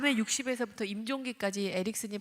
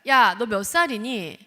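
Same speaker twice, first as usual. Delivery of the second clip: loud, higher lecturing scold; entitled lecture scold; 4 semitones higher, 7 dB louder than usual. Retold or imitated. Parent telling teen what is expected, loud scold. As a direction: hammer home what a sixteen-year-old owes. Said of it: "그 다음에 당연시를 합니다".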